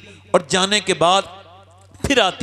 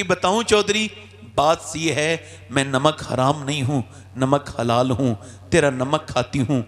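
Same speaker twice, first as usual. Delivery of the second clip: humble reply; 5 semitones lower than usual. Retold or imitated. Daughter answers humbly.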